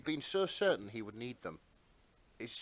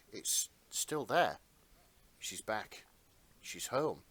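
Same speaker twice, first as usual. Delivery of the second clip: story narration. A narrator's reading. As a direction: read it like a gentle fairy tale. S0 narrates the scene.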